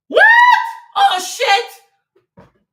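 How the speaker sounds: high, loud startled curse; shocked. Real, not acted. Streamer spots the wrong player in the photo, startled. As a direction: blurt it out in alarm. Realizes she mixed up players.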